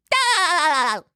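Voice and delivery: high sharp SpongeBob-style "Da!"; SpongeBob laugh burst. Shown as a demonstration. Demonstrating the voice actor's laugh trick, high cartoon burst. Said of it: "how he does this, the laugh".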